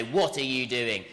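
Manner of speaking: understated, level scolding; teacher telling off. Acted. Teacher to a pupil being told off, mildly stern. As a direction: look down on them and lightly reprimand. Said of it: "a teacher might tell you off and look down".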